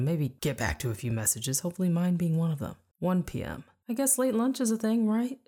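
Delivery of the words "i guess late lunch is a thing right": anxious. A narrator's reading. Anxious self-reassurance.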